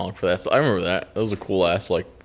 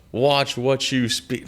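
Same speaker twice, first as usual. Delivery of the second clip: rapper quote; much slower than usual. Retold or imitated. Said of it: "him being like".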